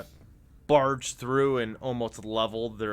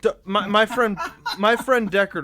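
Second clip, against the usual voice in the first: laughing; 8 semitones higher, 4 dB louder than usual. Real, not acted. Laughing while in character.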